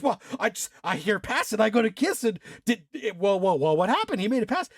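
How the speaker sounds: mock fluster, tripping over words; retold nervous backpedal. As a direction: scramble to cover the slip. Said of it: "has to backpedal".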